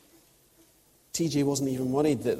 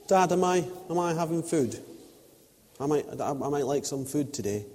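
a lightly voiced child, higher at first; polite child voice; 3 semitones higher than usual. Toddler son asking dad about food, a light mock-child voice. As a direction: ask politely as a toddler never would. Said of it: "He doesn't say".

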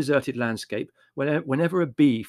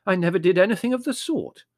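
protesting; 8 semitones higher, 6 dB louder than usual. A narrator's reading. Mother protests.

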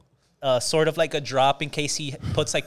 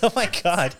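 laughing while talking; 4 semitones higher than usual. Real, not acted. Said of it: "I'm trying not to laugh".

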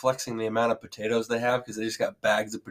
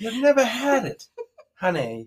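put-on Maine accent through laughter; laughing mock Maine accent; 9 semitones higher, slower than usual. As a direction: play a scolding Mainer, half laughing. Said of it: "What's this accent?".

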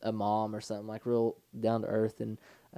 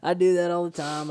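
higher, louder sweet reassurance; mock sweet customer service voice, higher and louder; kind motherly agent; 5 semitones higher, 4 dB louder than usual. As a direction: play the kind phone lady, bright and comforting. Quoting the kind phone agent.

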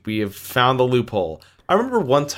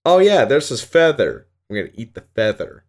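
dog's inner voice; 5 dB louder than usual. Retold or imitated. Owner voicing her dog's thoughts about a feather. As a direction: play the dumb happy dog finding a feather. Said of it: "and he's just like".

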